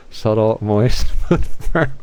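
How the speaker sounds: slow, giggling through the words; laughing. Real, not acted. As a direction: drawl it out while laughing. Giggling over innuendo words.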